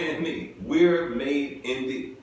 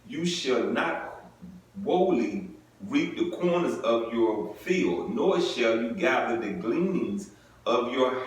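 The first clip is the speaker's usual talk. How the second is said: measured formal Bible reading; scripture reading. Acted. Preacher reading scripture to the congregation, measured and solemn. Reads Leviticus aloud.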